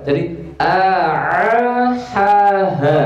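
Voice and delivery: "A, A, ha, ha" run together, glottal "A" then breathy "ha"; no gap between the syllables; without a pause. Shown as a demonstration. Teacher showing the student no pause, run together. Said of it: "Ini tanpa jeda".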